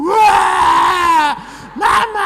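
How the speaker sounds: high, loud imitated child's wail for mama; mock child wailing. (tiruan tangisan anak yang keras)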